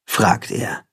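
ordinary delivery

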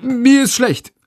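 lightly faked queasiness; 1 faked sickness. A narrator's reading. Boy lying through a locked door, faking a sick voice. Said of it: "lügt Jendrik".

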